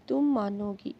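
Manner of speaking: ordinary delivery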